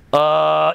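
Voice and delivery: low, held droning "uh"; mock energy hum. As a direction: drone as if sensing mystical energy. Mimics people sensing energy corner.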